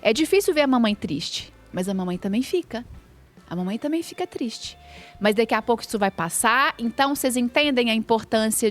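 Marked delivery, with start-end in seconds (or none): 0.0-6.7 acolhedor. Retold or imitated. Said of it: "Eu falei".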